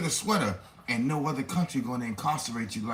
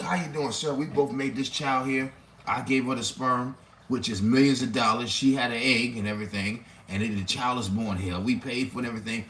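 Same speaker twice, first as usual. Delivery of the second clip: mock polite plea; 4 semitones lower than usual. Man pleading in court.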